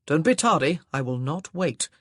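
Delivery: stern warning. Acted. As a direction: warn her sternly. Husband stern command.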